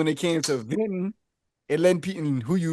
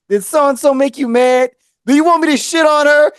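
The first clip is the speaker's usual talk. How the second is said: imitating sister; 7 semitones higher, 7 dB louder than usual. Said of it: "My sister said".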